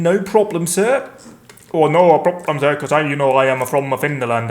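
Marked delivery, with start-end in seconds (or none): 0.0-1.1 put-on Finnish accent. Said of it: "that's how people from Finland talk".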